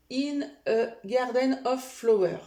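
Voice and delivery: slow English title in a French accent; careful French-accented English. Real, not acted. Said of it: "excusez-moi pour mon accent".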